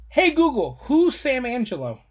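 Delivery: loud, clear command to a speaker; talking to voice assistant. Real, not acted. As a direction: speak up for the device. Asking the assistant.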